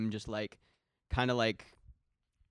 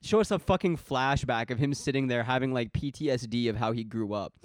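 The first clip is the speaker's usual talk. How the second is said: raised, louder ranting at first, easing a little; exasperated rant; 3 semitones higher, 4 dB louder than usual. Retold or imitated. Podcaster ranting to co-host about lazy film writing, exasperated. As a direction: vent in heated disbelief.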